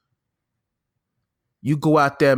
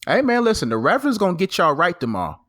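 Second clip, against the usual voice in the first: high, hyped preacher sign-off; mock reverend; 5 semitones higher than usual. Signing off to listeners as the Reverend, hyped and high. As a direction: call it out like a revival preacher.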